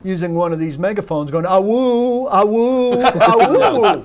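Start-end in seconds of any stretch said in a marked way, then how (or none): 1.4-4.0 megaphone horn call. Retold or imitated. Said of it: "the Flintstone reference".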